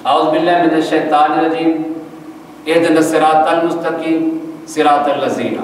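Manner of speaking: Quran verse with Urdu-style consonants; demonstrating a faulty recitation; Pakistani mispronunciation. Shown as a demonstration. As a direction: recite it the common untrained way. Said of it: "یہ ہمارے غلط تلفظ ہیں".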